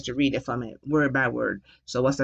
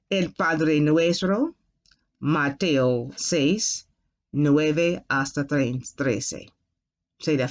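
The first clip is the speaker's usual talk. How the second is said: slow, careful reading of the reference; slow model reading. Shown as a demonstration. Teacher modelling the verse reference, slow. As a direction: spell it out slowly for learners. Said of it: "So you will say".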